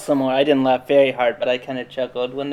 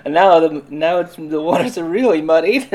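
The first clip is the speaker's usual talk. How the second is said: exasperated; 3 semitones higher, 5 dB louder than usual. Retold or imitated. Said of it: "And I was like".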